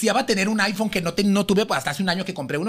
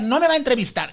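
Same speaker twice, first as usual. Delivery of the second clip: higher-pitched mock refusal; retold yelling; 4 semitones higher than usual. Diva refusing to be interviewed, retold yelling. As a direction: imitate an indignant protest, mildly raised. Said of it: "cuando empezó a gritar".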